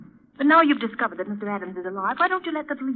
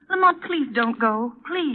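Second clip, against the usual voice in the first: pleading; 3 dB louder, slower than usual. Acted. Margot begs Lamont.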